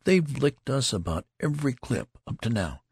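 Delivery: lightly voiced soldier, eager for battle. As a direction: boast to your comrade, fired up. Narrator voices the eager loud soldier.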